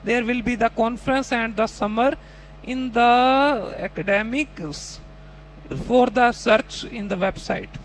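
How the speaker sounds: slow, broken, halting mock answer with pauses; imitating a struggling student. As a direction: stumble through the sentence in pieces. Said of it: "तो आप अब अपने वाले".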